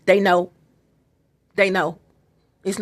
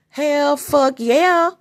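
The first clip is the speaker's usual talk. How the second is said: slow triumphant; 6 semitones higher, much slower than usual. Real, not acted. Triumphant exclamation.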